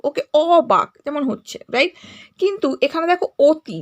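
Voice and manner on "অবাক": "অবাক" with a drawn-out open aw at the start; open "ɔ" vowel. Shown as a demonstration. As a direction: say "অবাক" as aw-bak, deliberately. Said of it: "অ বর্ণটি উচ্চারণ অ ধ্বনির মতো". ("অবাক"-এর অ টেনে অ ধ্বনিতে)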